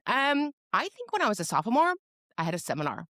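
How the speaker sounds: put-on high-pitched, unsure young caseworker. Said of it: "might have been twenty-two years old".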